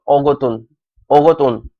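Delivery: ओगोतुन starting on "o", with a t; wrong reading. Shown as a demonstration. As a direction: misread ओगोतुन with an opening o vowel. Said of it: "लेकिन ओगोत नहीं पढ़ना". (ओगोतुन, शुरू में "ओ" वाला गलत उच्चारण)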